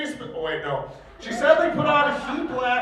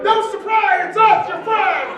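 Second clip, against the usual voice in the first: mock surprise reveal; 8 semitones higher, 5 dB louder than usual. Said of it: "they're like".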